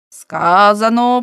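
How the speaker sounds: slow, loud, drawn-out opening word; solemn pronouncement. A narrator's reading. Old man reading his sacred knots, pronouncing solemnly. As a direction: intone it like scripture. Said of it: "промовив він".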